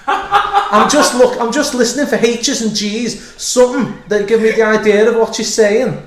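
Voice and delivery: high, loud, laughing rant; laughing shout. Acted. Punchline tag shouted while laughing.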